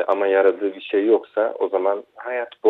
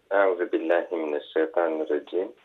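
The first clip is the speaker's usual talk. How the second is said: echoing voice; 3 semitones lower, 5 dB quieter than usual. Real, not acted. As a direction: voice echoing on the line. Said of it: "sesim yankı yapıyor".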